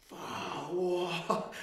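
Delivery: rising to a high amazed yelp; stunned, the voice jumping up; stunned disbelief. Retold or imitated. Tripping, reacting in amazement.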